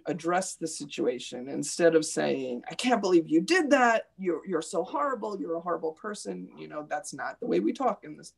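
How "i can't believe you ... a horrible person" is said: imitating a kid snapping at a classmate, fading to a quick hush; mock kid insult. Teacher imitates a student scolding a classmate, mock outburst. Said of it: "We don't talk like that".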